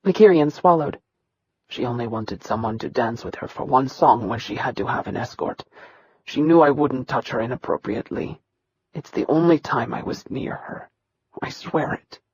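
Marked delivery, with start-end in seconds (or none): 1.7-12.2 soft, low pleading that fades to a whisper; panicked pleading. Acted. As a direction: plead quietly, terrified of the blow. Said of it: "His voice quivered in panic".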